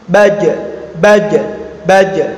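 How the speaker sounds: "Baja" said as baj, the j stopped; held sound. Shown as a demonstration. Teacher correcting to tertahan, mandek, held sound. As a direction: halt on the j of "Baja", no open vowel. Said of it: "tertahan, mandek".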